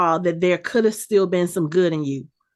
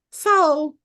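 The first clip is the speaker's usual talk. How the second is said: put-on higher, teasing "boy, please" attitude; sassy disbelieving scold; mock scolding; 9 semitones higher than usual. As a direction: talk down to him like his mama would. Mocking the villain son.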